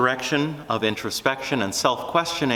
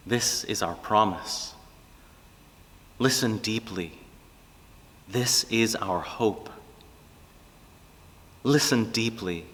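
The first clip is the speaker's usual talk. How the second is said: prayer. Real, not acted. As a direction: pray it gently over the listeners. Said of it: "I want to offer it as a kind of prayer".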